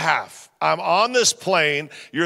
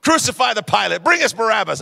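mock grumpy yelling; 4 semitones higher than usual. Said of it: "I was just yelling anything".

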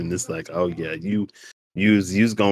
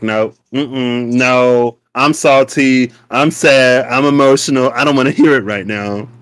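loud, upset brush-off; stubborn refusal; 4 dB louder than usual. Retold or imitated. Refusing the dream helper's advice, loud upset retort. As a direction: push the advice away, fed up. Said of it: "I'm like".

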